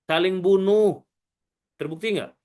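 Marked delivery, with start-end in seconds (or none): 0.0-1.0 slow, drawn-out complaint to God; long-drawn questioning appeal; protesting angels. Acted. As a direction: drag out the words in protest. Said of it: "Apa langsung kata malaikat?".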